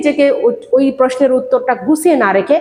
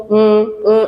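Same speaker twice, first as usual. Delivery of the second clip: 1 demo filler hums; 3 semitones lower, much slower than usual. Shown as a demonstration. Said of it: "এভাবে বলছি".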